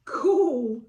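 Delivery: Sally is thrilled; delighted. Acted. Sally, meeting the something, says it thrilled and bright. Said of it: "said Sally".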